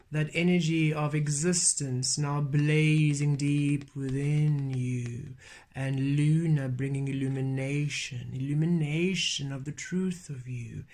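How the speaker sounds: measured, incantatory flow with repeated cadences; chant-like list, slowing right down at the close; channelled reading. Acted. Channelling Leo moon energy to listeners, steady incantatory delivery.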